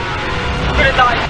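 drawn-out loud cry of doom; loud slow despairing wail; slow panicked wail. Real, not acted. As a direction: wail it as you get caught. Caught by monster.

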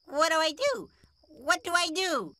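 high, anxious plea for guidance; distressed king pleading. Acted. Chastened king asking the messenger how to fix it, distressed. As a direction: ask helplessly, pitched well up.

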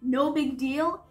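indignant echo. A narrator's reading. Hurt boy echoing her excuse, indignant. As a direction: throw the words back, drawn out and rising.

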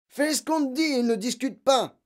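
loud, high angry command; furious father shouting; barked order. A narrator's reading. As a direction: bark at the child to obey. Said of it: "aboya son père".

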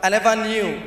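low, humbled apology; apologetic officer. Acted. Immigration officer to Nigerian passport holder, low humble apology. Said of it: "when I see immigration officer apologize".

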